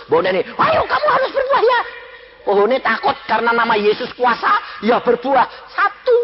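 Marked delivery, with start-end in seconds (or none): 0.4-1.8 much higher, sweet coaxing woman's voice; gentle coaxing. Retold or imitated. Woman who should have sweet-talked her tree, high and coaxing. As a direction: coo it like soothing a child. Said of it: "Ndak mbok lus-lus".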